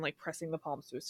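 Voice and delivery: talking through hands; muffled voice. Real, not acted. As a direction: palms pressed over mouth. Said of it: "That's why I just muffled my voice".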